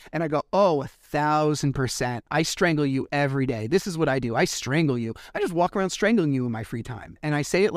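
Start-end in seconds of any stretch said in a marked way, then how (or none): 0.5-7.2 mock-confess with exaggerated agreement; super sarcastic. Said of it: "like, super sarcastically".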